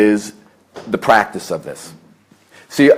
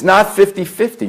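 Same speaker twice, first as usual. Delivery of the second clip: not fifty fifty, with not hit much higher; stress on not; 9 semitones higher than usual. Real, not acted. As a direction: punch the word not, then fifty fifty. Stressing correction of common belief.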